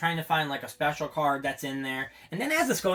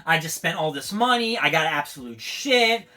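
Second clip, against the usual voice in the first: stressed outburst; 5 semitones higher, 5 dB louder than usual. Real, not acted. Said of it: "I'm even stressing more".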